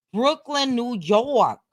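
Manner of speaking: lightly put-on New York accent, R dropped in York. Streamer repeating a tour stop like a local, New York accent. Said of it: "say New York like I'm from that".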